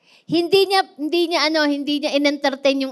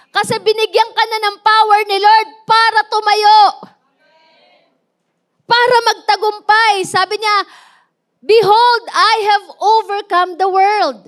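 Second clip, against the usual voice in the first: higher, louder fervent preaching; preaching at full force; 6 semitones higher, 5 dB louder than usual. Acted. Preacher urging the congregation to rise by Jesus' power, louder. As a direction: drive the message home to the crowd.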